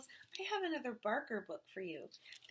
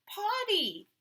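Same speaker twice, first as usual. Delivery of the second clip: much higher, louder; urgent toddler; 12 semitones higher, 8 dB louder than usual. A narrator's reading. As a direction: blurt it urgently. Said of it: "Marcos said".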